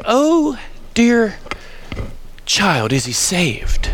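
lightly imitated British teacher, slow with long pauses; British accent. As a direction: draw it out in a mild British accent, falling in pitch. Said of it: "in a British accent, she'd say".

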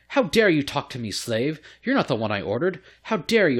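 imitating an affronted master; mock indignant noble. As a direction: act out a haughty telling-off. Noble scolds the player as slave.

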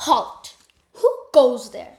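loud commanding halt; guard shout. Acted. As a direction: bark the challenge like a guard. Guards challenge visitors.

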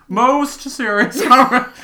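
high, loud, drawn-out silly voice; odd put-on voice. Correcting a misread line in a high put-on voice. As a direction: belt it slowly in a high character voice.

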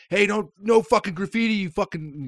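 high scolding yell; mock scolding janitor. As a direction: scold him like a grumpy janitor. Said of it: "And he's like".

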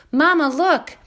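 high, loud excited gosling squeak. A narrator's reading. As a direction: squeal with delight as he lifts off. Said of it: "he squeaked".

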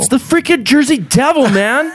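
high, mock Southern farmer accent; a hammed-up Southern yokel griping. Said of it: "I'm using a Southern accent for Jersey".

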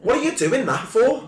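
high-pitched TV shout; high yell at the TV. Retold or imitated. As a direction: yell at the telly. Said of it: "I'll hit it with a".

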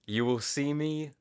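slow, deadpan cowboy line reading; slow quote in a lightly acted cowboy voice. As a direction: imitate a cowboy reciting with no expression. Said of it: "It's so deadpan".

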